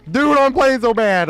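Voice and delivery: high, loud and slow complaint; frustrated outburst. Real, not acted. Streamer scolding own bad play, loud and frustrated. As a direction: groan it out at yourself.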